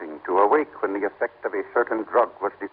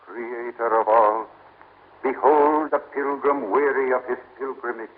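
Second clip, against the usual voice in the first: solemn invocation; 2 semitones higher than usual. Acted. Priest chants prayer to Isis.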